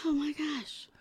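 breathless whisper. Real, not acted. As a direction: whisper it in awe. Reacting to prize idea.

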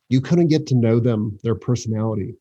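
choking on a drink. Real, not acted. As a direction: voice catching while choking. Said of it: "I'm choking".

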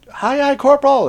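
high, loud acknowledgement to a superior; recruit's dutiful reply. Retold or imitated. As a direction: call it out like a startled junior Marine. Scared kid answers screaming corporal.

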